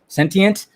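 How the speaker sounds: Sentient said carefully as SEN-tee-ent; name correction. Real, not acted.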